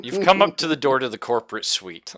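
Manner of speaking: 笑いをこらえきれずに語る; laughing. Real, not acted. GM laughs while narrating scene.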